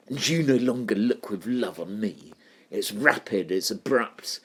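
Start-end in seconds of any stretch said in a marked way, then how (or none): 0.1-2.3 a touch of bitter sass on "And you no longer look with love on me"; bitter and sassy. Shown as a demonstration. Teacher reads the line the way she hears it, with light bitter sass. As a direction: read it like a mildly scornful jilted lover. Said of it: "quite angry, quite bitter, in quite a sassy way".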